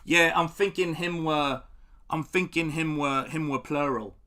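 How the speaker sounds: put-on lightly done British boxer accent; British fighter impression. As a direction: imitate Kell Brooks talking slowly. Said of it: "He goes".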